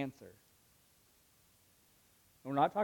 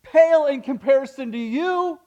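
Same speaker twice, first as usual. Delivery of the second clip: God pleading lovingly; 7 semitones higher, 8 dB louder than usual. Pretend. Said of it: "God thinks".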